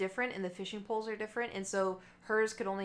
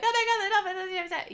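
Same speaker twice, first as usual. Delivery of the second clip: much higher, louder squeal of delight; freaking out; 12 semitones higher, 8 dB louder than usual. Retold or imitated. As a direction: gush over the dolphins at the top of your voice. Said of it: "I start freaking out".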